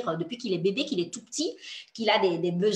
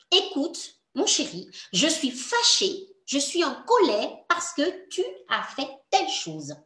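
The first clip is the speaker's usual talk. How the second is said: put-on calm mother to child; 5 semitones higher than usual. Shown as a demonstration. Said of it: "Tu peux dire à ton enfant".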